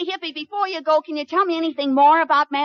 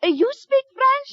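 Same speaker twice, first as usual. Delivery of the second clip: fake French accent; 10 semitones higher than usual. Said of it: "she has a decided French accent".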